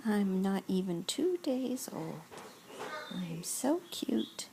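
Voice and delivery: put-on speaking for the baby in a whisper; a hushed hint of a newborn's voice.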